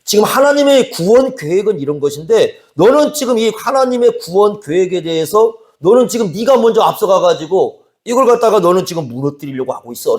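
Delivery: forceful retold rebuke. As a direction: press each point home as Jesus admonishing Peter. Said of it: "강력히 얘기를 하는 겁니다". (강하게 꾸짖는 말투를 재연)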